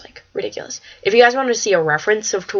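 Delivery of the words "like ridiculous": breathless whisper; whispered awe. Real, not acted. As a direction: whisper it, stunned. Awed by attractive boy.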